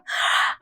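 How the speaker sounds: laughing at a friend's question; helpless amused laughter. Acted. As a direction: burst out laughing, then apologise. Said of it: "I'm sorry for laughing".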